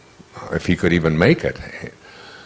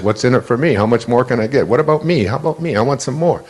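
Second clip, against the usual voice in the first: higher, grasping whine of the ego; mock the ego's greedy demands; 3 semitones higher than usual. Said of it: "the mantra of the ego is".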